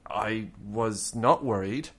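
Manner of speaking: puzzled German, a word at a time at first; German friend's rough English. Retold or imitated. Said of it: "his English was a bit rough".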